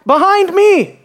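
high loud call of Behind me; shouted command to follow; shouting. Shown as a demonstration. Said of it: "It's as if he's shouting".

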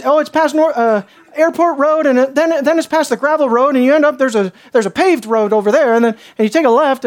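put-on thick rural accent; thick local accent. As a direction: rattle off directions in a mock local accent. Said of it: "he spouted off in, like, a thick accent".

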